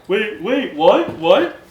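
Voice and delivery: loud, high-pitched, bewildered outcry; alarmed Furbolgs. Acted. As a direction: cry out as if suddenly trapped. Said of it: "get wrapped up in these vines and going".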